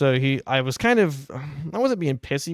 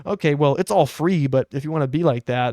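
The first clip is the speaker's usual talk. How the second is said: retold snippy attitude; 3 dB louder than usual. Oil change lady answers a reluctant customer, mock snippy attitude. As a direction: imitate a clerk copping an attitude. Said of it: "she started getting an attitude with me".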